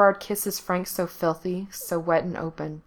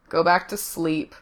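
half-hearted. A narrator's reading. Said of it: "but it's half-hearted".

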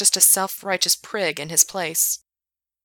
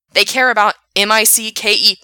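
sneering; 4 semitones higher, 10 dB louder than usual. Acted. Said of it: "Frank sneered".

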